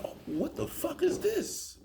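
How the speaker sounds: high, slow and hushed disbelief; half to yourself, stunned; rising stunned question; baffled exclaim. Retold or imitated. Car speeding the wrong way.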